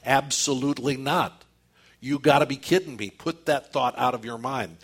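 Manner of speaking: firm, punchy table-pounding refusal; strong emphatic. Acted. Preacher voicing Paul's pound-the-table answer, strongly emphatic. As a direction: reject it outright with some force. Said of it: "it's a strong emphatic, it's a pound the table".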